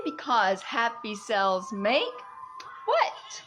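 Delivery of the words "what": much higher teasing question; playful quiz. Pretend. Quizzing viewers playfully. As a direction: ask it like a game-show host.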